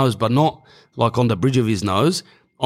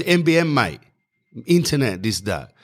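mock Chinese accent; 2 semitones higher than usual. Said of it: "Like, they got accents".

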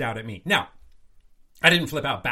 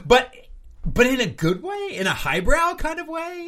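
teasing high question; 11 semitones higher, 5 dB louder than usual. Real, not acted.

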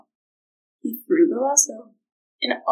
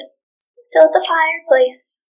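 mock afraid; 5 semitones higher than usual. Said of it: "pretending to be afraid".

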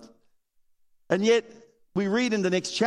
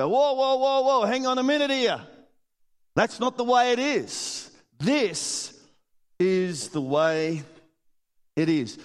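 firm correcting; 6 semitones higher than usual. Retold or imitated. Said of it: "you gotta say".

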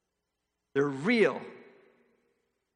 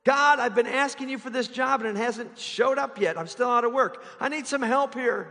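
complaining prayer; 5 semitones higher, 3 dB louder than usual. Retold or imitated. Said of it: "complaints to God".

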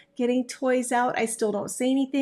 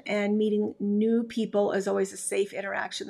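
ordinary delivery

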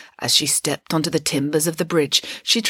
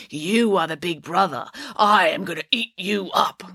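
troll voice. Acted. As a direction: menace him like a troll. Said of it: "said the troll".

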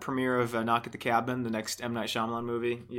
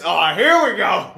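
slow, drawn-out mocking heckle; heckler from the back; 2 semitones higher, 4 dB louder, slower than usual. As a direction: call it out slowly like a fed-up heckler. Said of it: "Just from the back, just".

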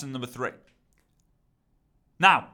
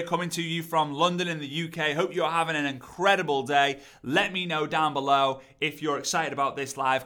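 upbeat host intro. Shown as a demonstration. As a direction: open the live with energy. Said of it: "so yours could be".

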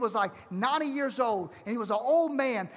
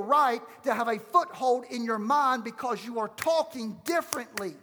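impassioned preaching. Real, not acted. Preaches emphatic declaration.

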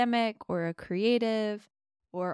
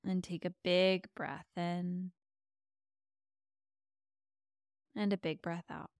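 guided meditation. Acted. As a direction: ease them into calm with long pauses.

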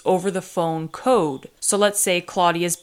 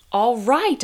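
raised, louder cheer; excited cry; 6 semitones higher, 3 dB louder than usual. A narrator's reading. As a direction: cry out in happy relief. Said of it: "I cried".

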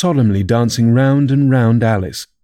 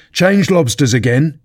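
mild storybook yell; contained yell, a touch higher; 4 semitones higher than usual. Acted. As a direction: call out excitedly, pitch raised. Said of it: "at the top of his voice".

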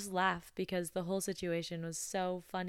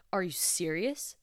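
mild mock annoyance; 4 dB louder than usual. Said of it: "he raises his voice".

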